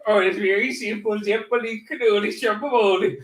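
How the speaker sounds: mock Italian. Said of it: "how to say in Italian".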